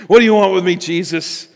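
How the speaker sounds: lightly voiced demon confronting Jesus. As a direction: challenge Jesus as a cornered demon. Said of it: "I wish I had a good demon voice".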